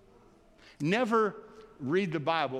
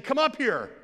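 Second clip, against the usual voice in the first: much higher and louder summons; booming call from heaven, raised high; 9 semitones higher, 5 dB louder than usual. Retold or imitated. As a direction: call them up from the sky. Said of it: "loud voice from heaven saying".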